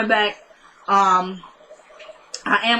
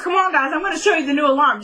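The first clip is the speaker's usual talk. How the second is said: higher, quick imitation of an eager kid; hurried, pitched-up coaxing; eager boy; 6 semitones higher, faster than usual. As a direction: act out a child rallying friends. Retold boy urging the kids along.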